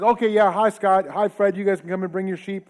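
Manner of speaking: gatekeeper greeting. Retold or imitated. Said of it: "and he says".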